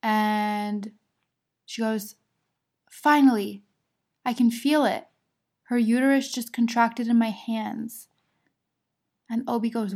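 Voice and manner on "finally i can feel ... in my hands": louder start, easing off; retold excitement. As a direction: announce the long-awaited news as the midwife. Retelling midwife announcing the contraction.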